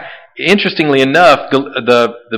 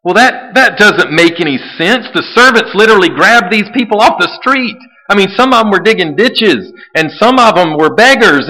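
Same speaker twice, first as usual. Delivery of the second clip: skeptical objection; 4 semitones higher than usual. Retold or imitated. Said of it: "some of you are saying".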